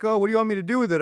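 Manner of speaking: high, naive wife voice; imitating wife. Husband mimics his unaware wife asking, high naive voice. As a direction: ask it up high and innocent. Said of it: "She's like".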